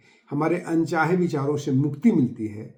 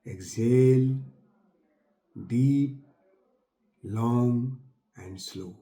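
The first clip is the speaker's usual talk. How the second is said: long-drawn words, each followed by a pause; guided breathing; much slower than usual. Acted. Paces listeners' long slow breaths. (साँस की लय पर खिंचे हुए शब्द)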